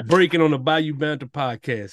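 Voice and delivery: mock newscaster. Mock breaking news about co-host's accent.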